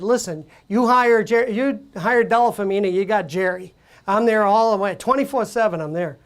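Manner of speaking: put-on a light New York accent as Jerry; lightly voiced brash New York pitchman. Ad man pitching to win the Sony account, a light New York accent. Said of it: "I'm doing a New York accent because I did Jerry Della Femina".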